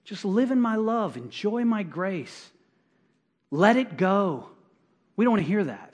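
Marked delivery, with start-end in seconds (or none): 0.0-4.5 soft, slow, soothing voice of God; calm the listener down gently; God speaking calmly. Acted. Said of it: "And God's saying".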